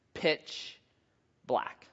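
breathed, barely voiced; hushed whisper. A narrator's reading. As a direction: let the dark swallow the words. The flashlight shatters in the cave.

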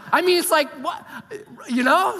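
high, loud laughing rant; laughing exasperation. Retold or imitated. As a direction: laugh through the frustration. Retelling frustrated outburst at game.

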